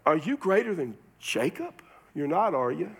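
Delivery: mildly incredulous challenge, rising on the question; skeptical rhetorical question. Acted. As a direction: doubt it, voicing the woman's challenge. Woman's rhetorical challenge to Jesus.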